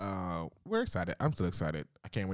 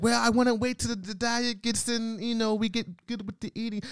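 higher, slowing mock excuse voice; mimicking partner. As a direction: do his excuse in a raised, dragging voice.

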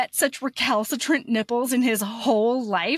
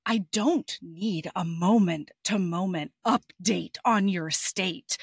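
bored voice; 4 semitones lower than usual. Retold or imitated. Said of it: "she's got this really bored voice the whole time".

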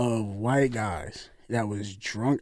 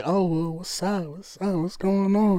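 lightly voiced flirting ladies, higher pitch; imitated flirtatious greeting; 4 semitones higher than usual. Ladies flirting, rubbing his back.

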